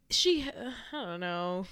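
slow, whispered uncertainty. Real, not acted. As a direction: trail off into a whisper, unsure. Unsure about her feelings.

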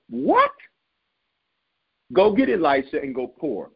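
very high-pitched squawk of disbelief; shocked, sky-high question; incredulous. Retold or imitated. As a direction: react as if the order makes no sense. Acting out disbelief at God's order.

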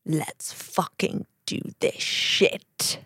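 slow, soft hype line; low and slow. Acted.

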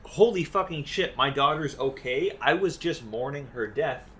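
lightly voiced relieved father; mock gushing thanks; mock grateful Barrett. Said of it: "And then when he's like".

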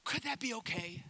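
hammed-up timid asking, softening on the question; tentative, mock-polite comic voice; comically meek request. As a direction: play a hesitant crowd nervously asking a favor. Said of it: "read it in the most hilarious voice".

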